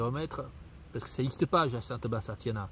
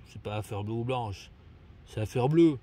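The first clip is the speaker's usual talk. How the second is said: lower, matter-of-fact contradiction; correcting; 4 semitones lower, 3 dB louder than usual. Real, not acted. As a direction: drop the pitch and rebut the text. Contredit ce qu'il vient de lire. (rectification catégorique)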